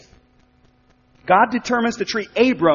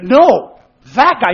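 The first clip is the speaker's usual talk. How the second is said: emphatic, louder and higher "No, that guy"; 3 semitones higher, 6 dB louder, slower than usual. Acted. Preacher voicing God's answer to Abram, emphatic. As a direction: punch "No" hard, as a firm rebuttal. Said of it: "God's response is emphatic".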